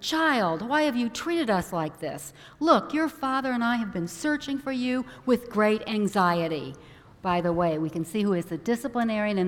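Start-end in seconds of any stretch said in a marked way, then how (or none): 0.0-6.7 mildly indignant scolding; a touch of motherly reproach. Acted. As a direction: chide a child as a worried mother, lightly acted. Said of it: "Mary was indignant and chastised her son".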